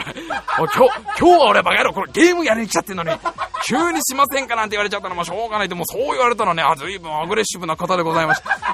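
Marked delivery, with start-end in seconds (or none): 0.0-5.7 flustered laughing self-talk. Retold or imitated.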